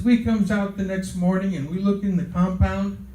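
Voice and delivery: lightly imitated New York gangster; a hint of gangster accent. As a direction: tell it like a New York mobster. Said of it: "He had a heavy gangster accent".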